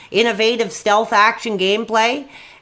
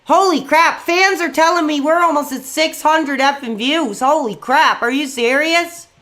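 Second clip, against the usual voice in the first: excited; 3 semitones higher than usual. Real, not acted. View count hits a record.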